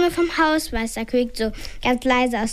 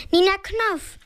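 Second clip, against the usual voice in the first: put-on much higher little-child cry; crowing shout; 8 semitones higher than usual. A narrator's reading. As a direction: crow it like a toddler. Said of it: "kräht plötzlich eine andere Stimme".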